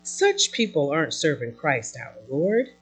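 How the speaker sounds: measured, emphatic preacher's reading; emphatic scripture reading. Acted. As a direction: read the apostle's letter out to the congregation. Reads Paul's letter aloud.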